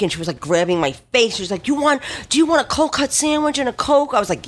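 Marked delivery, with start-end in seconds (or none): 1.7-4.1 put-on a lightly higher, doting older lady; Greek wife offering food. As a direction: mimic the fussing Greek wife, a touch up in pitch. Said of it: "she was Greek".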